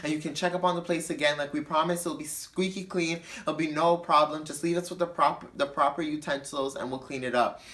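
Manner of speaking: sweet placating customer-service voice; mild fake-nice reassurance; nice soft calm voice. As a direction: suck up and play it nice. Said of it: "my nice little soft, calm voice".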